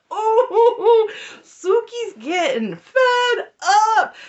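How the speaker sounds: high, loud, slow laugh through the words. Real, not acted. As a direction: giggle it out in delight. Laughing at Sookie's frustration.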